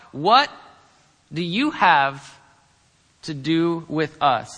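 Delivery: loud, slow, drawn-out demon cry; demon yelling. Retold or imitated. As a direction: cry it out like the possessed man. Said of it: "he yells out".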